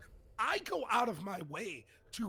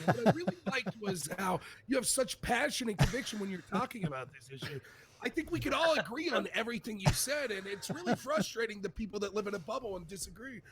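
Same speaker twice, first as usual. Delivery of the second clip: putting on earnest praise for a caller; mock sincerity. Host bluffing to an unheard caller, mock-sincere. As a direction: lay on the fake appreciation. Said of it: "see how good of a B S".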